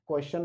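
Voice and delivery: क्वेश्चन said wrongly with a "shun" ending; mispronounced क्वेश्चन. Shown as a demonstration. Teacher shows students the mistake, mispronouncing क्वेश्चन with "shun". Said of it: "नहीं pronounce कर सकते हैं".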